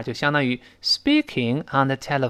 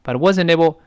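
"wasn't able" run together at natural speed; normal-speed linking; 3 semitones higher than usual. Shown as a demonstration. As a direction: link "wasn't able" smoothly, t softened. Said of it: "常速这个朗读时或常速跟读时".

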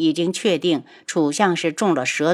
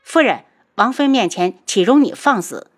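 louder stern scolding; stern rebuke; 3 semitones higher, 4 dB louder than usual. Acted. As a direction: put her in her place. 青姨呵斥楚夫人. (严厉呵斥)

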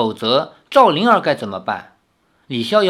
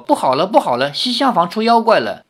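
alarmed cry; 6 semitones higher, 3 dB louder, faster than usual. A narrator's reading. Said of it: "丫鬟跑过来叫着说".

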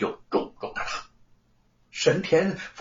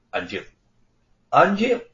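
calling for order; 3 semitones higher, 4 dB louder than usual. Acted. Magistrate calls court to order. (官老爷喝令安静)

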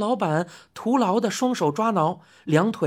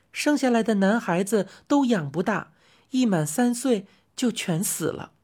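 soothing lady customer. Acted. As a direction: coax the old man kindly. Customer explains her land.

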